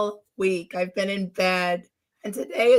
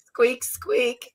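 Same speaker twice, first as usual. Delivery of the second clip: little squeaker noises, higher; mock squeak; 4 semitones higher than usual. Shown as a demonstration. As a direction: squeak it like a mouse. Mimics her own squeaky sick voice.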